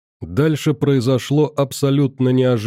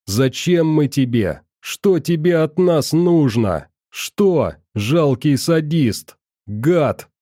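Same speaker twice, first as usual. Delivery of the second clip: shouting; 4 semitones higher, slower than usual. Acted. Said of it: "махала руками и кричала".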